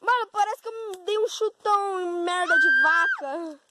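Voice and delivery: high, loud exclaiming; excited shout. Real, not acted. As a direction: shout it out in disgust. Describing muddy foot, still shouting.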